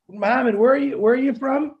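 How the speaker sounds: ordinary talk, nothing marked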